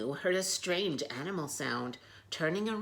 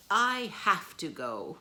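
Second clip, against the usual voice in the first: slow, louder, higher cow voice; sad farewell; 4 semitones higher, 7 dB louder than usual. Acted. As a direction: say it sadly and slowly.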